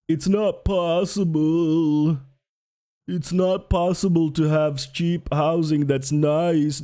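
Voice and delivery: drawn-out mock objection; mimicking a whiny objector; mocking naysayer. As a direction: drag it out to mock the doubters. Mocking what anyone says against housing.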